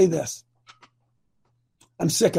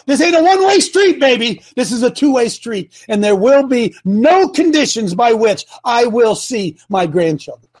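retold scolding; 4 dB louder than usual. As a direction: build from a cold warning to a loud tirade. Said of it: "I said".

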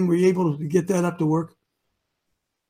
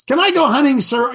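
higher, pleading little voice asking the boss; meek citizen asking; 5 semitones higher, 5 dB louder than usual. Retold or imitated. Host acting a citizen begging permission, higher and meek. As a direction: ask permission like a timid subject.

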